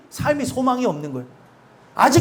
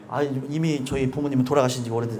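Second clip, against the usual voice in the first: a softer, lower imitated aside; mock objection; 11 semitones lower, 7 dB quieter than usual. Congregant objects that parents are gone, soft and low. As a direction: mimic a listener's protest under the breath. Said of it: "이런 얘기가 아니라".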